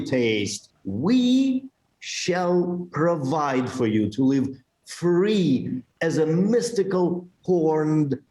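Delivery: whispery promo read. Acted. Reading a promo statement aloud.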